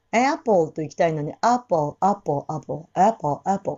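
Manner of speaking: Apple with a wide open a; 思いっきりア; full a. Shown as a demonstration. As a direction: let the a of Apple out fully. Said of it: "これぐらいの".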